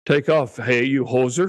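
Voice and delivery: hammed-up Canadian accent, a bit punchy on take off; mock Canadian accent. Cohost jokes about Canadians on the podcast, mock Canadian accent. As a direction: lay the Canadian accent on thick for a joke. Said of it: "We, we can speak Canadian, eh?".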